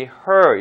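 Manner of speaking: "her" with a long r-colored vowel; "her" not air or ear. Shown as a demonstration. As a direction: say "her" with the tongue curled for R. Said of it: "R 발음을 살려주기 위해서 어라고 발음되는".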